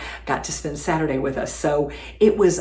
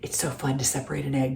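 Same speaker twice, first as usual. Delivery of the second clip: whispered aside; 3 semitones lower, 5 dB quieter, faster than usual. Real, not acted. Aside while separating eggs.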